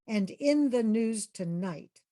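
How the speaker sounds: slow, measured newscaster line; lightly voiced news anchor. Shown as a demonstration. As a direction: announce it like the evening news, falling at the end. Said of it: "imagine a newscaster saying".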